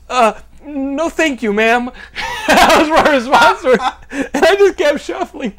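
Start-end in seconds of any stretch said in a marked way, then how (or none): 0.1-1.9 polite refusal. Retold or imitated. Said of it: "And I go".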